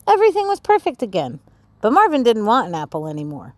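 lively read-aloud storytelling voice; expressive children's story narration. A narrator's reading. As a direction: read it like a bedtime picture book. Reading picture book aloud.

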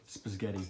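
Spaghetti said as spizghetti with a z added; parents' pronunciation. Retold or imitated. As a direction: say Spaghetti as spiz-ghetti. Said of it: "They added some extra letters".

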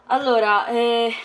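winded, catching breath; panting a little between words. Real, not acted. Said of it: "scusate il fiatone".

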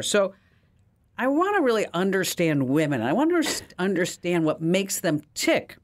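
a hint of a sheepish man explaining; the hero asking. Man explaining his girlfriend trouble to the genie, lightly voiced. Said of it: "He goes".

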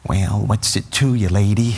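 put-on a kid doing a low, drawn-out tough guy; Jack Nicholson impression. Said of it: "thinks he's Jack Nicholson".

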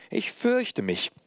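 high, drawn-out mock fear; slow it down in a distorted high puppet voice. A narrator's reading. Puppet feigning fear before the master, distorted high voice. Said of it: "mit einer verzerrten Stimme".

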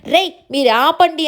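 mock-firm order to quit arguing; father cutting off his quarrelling sons, loudly; retold loud stop. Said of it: "అని చెప్పేసి గట్టిగా అంటాడనమాట".

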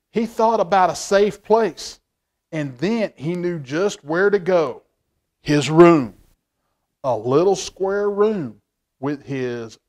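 slow, expressive read-aloud; story narration. A narrator's reading. Reads picture book aloud.

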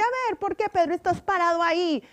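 high scolding teacher voice; a teacher demanding an answer. Acted. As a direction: play the teacher calling him out. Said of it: "Le dice".

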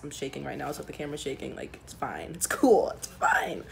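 trembling, nervous voice; shaky nervous voice. Real, not acted. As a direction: voice shaking with pre-surgery nerves. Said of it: "you can hear the shakiness in my voice".

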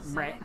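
"bruh" said like a duck's quack. Shown as a demonstration. Showing friends how it goes, quack-like bruh. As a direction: quack out the word "bruh" quietly. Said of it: "Like a quack and a bra".

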